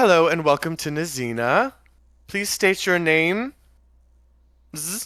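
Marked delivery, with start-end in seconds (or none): 0.0-3.5 cheerful, cheery, pitched-up woman's voice. Narrating a scene, the speaker voices the chamber's greeting in a cheery female voice. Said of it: "you hear a cheery female voice kind of echo through the chamber".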